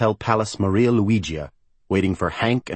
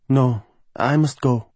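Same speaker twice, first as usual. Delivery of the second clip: higher, slow woman's role voice; Gabriella; 6 semitones higher, slower than usual. Acted. Cheerless singer tells Rick she is leaving, reluctant refusal. Gabriella, the unhappy soprano, speaking.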